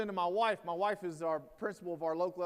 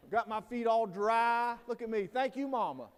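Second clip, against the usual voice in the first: put-on higher, louder and slow, a teasing pampered-boy voice; mock coddled kid; 4 semitones higher, 7 dB louder than usual. Speaker mocks a coddled college kid in rain boots, teasing voice. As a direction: lightly play the spoiled freshman thanking mommy.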